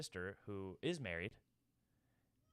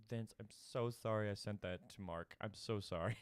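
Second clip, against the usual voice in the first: put-on drunk apology. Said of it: "puts her hand on my shoulder all drunkenly".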